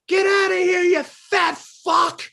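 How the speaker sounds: high shouted mock insult; retold insult yell. Musician retelling a bandmate yelling at the homeowner, mock shout. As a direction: bark it like the angry guitarist. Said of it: "he's like".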